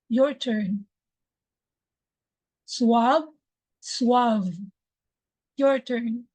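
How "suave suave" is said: suave ending in a V, not a B; suave, final V; teacher's model. Shown as a demonstration. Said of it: "I will say it first".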